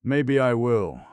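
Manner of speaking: hoarse, worn-out admission. Acted. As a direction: rasp it out, defeated. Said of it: "he said hoarsely".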